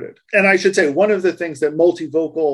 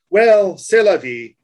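French phrase; 3 semitones higher, 5 dB louder, slower than usual. Shown as a demonstration. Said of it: "if I was saying".

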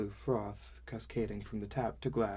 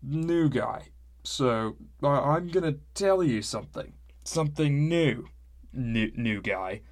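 put-on loud, high slurred drunk voice; drunk rambling; 4 semitones higher, 7 dB louder than usual. Skivrin slurring drunkenly at the newcomer, loud. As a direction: ramble it, swaying.

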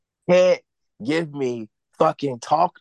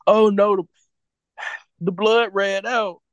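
mock dismay; 5 semitones higher, 3 dB louder than usual. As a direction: parody the lame plot twist. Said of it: "this is how it".

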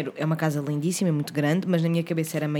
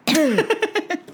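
choking on a drink; 11 semitones higher than usual. Real, not acted. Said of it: "Até me engasguei".

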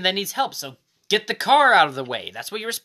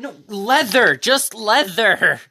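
loud protest; 6 dB louder, slower than usual. Real, not acted. Insists on nickname Leather.

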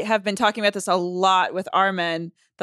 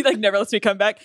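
laughing. Real, not acted. Laugh heard.

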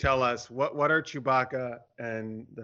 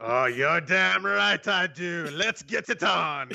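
put-on slow, suave French accent; 3 semitones higher, slower than usual. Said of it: "I should have done a French accent".

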